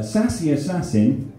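measured haiku reading, stepping down in pitch; haiku recital. Acted. Poet reads haiku film review to audience, measured recital. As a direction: recite in short phrases with pauses, falling to the end.

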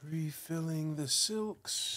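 slow, drawn-out mock British; bad British accent. Player announcing a silk refill, bad British accent. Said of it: "bad British accent".

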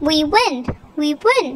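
mildly jubilant repeated cheer; excited cry. Acted. Ryan celebrating the won coin toss, excited cry. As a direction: cheer each time with a rise and drop. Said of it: "Ryan cried, jumping up and down".

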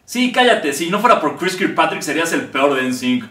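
loud, slow puppet put-down; puppet telling off. Acted. Puppet telling the comedian to shut up, loud. Quarrel continues, puppet insult.

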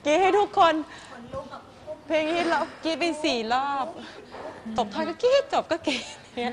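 real excitement, nearly shouting; excited gush. Real, not acted. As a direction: cheer it out like a thrilled fan. Judge gushing about the screaming crowd.

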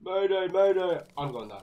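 frantic pilot distress call; bracing for a crash. Pretend. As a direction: shout mayday like a falling pilot.

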